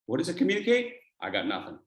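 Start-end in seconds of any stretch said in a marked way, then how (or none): 1.2-1.8 low, sheepish empty-handed line; low deflated shrug. Shown as a demonstration. Trainer showing a palms-up speaker, low sheepish shrug. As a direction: say it like you've got nothing to offer. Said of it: "You want to go into a speech and do this?".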